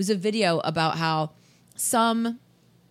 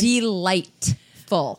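drawn out; much slower than usual. Acted. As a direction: stretch delightful out very slowly. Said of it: "delightful it was".

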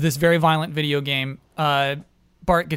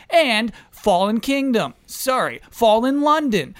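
announcer voiceover; 4 semitones higher than usual. Acted. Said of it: "then it turned into Brandon Kyle".

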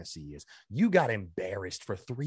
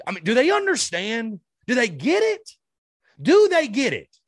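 higher, louder angry demand; furious; 10 semitones higher, 7 dB louder than usual. Real, not acted. Fan venting at his team's players, angry higher shout. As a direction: fire it at the players, fed up. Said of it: "I'm fucking pissed".

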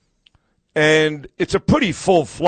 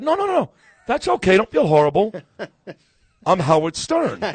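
mock reassuring; 3 semitones higher than usual. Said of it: "And I said".

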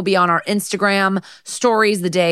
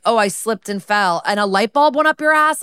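mock patient excuse; 4 semitones higher, 3 dB louder than usual. Mocking a patient's fake excuse.

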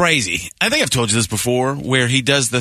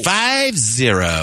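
accidental Lovitz; much slower than usual. Retold or imitated. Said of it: "I wasn't even trying to do Lovitz".

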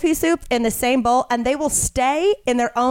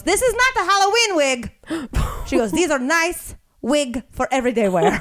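saleswoman voice; 5 semitones higher than usual. Retold or imitated. Wig saleswoman voiced in story.

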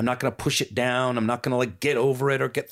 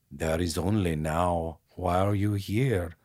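bad Eckhart Tolle impression; 3 semitones lower, slower than usual. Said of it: "I'm doing it terrible".

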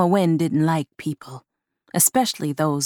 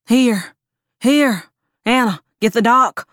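raised, urgent calling out; urgent shout; 5 semitones higher, 5 dB louder than usual. Acted. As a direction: call for help, high and loud.

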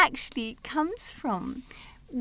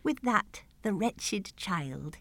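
slow, fading, lower and softer; hushed tragic ending; 7 semitones lower, 7 dB quieter, much slower than usual. Acted. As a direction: let the last line die away. Mock-tragic ending of recited verse.

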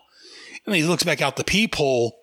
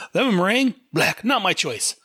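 Punch voice; 7 semitones higher than usual. Acted. Punch voiced in comic reading.

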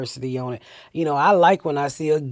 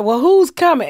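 curious family; 8 semitones higher, 5 dB louder than usual. Retold or imitated. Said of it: "they was like".

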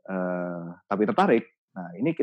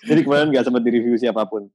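laughing; 5 dB louder than usual. Real, not acted. Admits nobody reviewed slides.

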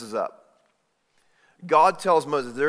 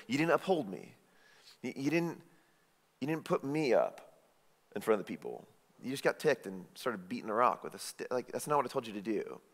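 rebuking; 3 semitones lower, 9 dB quieter than usual. Retold or imitated. God repeating the rebuke.

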